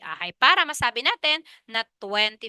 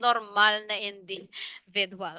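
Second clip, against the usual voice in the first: "normal" drawn out slowly with weight; slow down and lean on "normal"; stress on NORMAL; 3 semitones lower, slower than usual. Shown as a demonstration. Teacher underlining which sleepers she means, slow emphasis on "normal". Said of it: "With emphasis".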